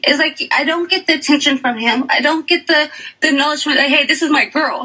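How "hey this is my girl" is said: ordinary talk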